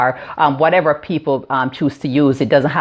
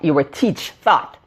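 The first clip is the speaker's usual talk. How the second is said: Jamaican accent; much slower than usual. Real, not acted. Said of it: "my Jamaican accent is coming out here".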